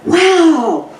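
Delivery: slow, laughing "wow, I love this"; delighted discovery. Retold or imitated. Friend's first shot at the range, laughing delight. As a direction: savor the thrill with a laugh. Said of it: "she was like".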